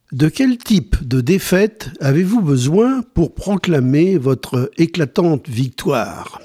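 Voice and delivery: automated phone menu. Acted. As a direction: read options like a hotline. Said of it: "poll read as phone menu".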